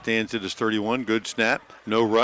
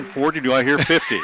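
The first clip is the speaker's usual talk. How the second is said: lightly voiced auctioneer taking bids; 3 semitones higher than usual. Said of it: "Sounds like an auctioneer".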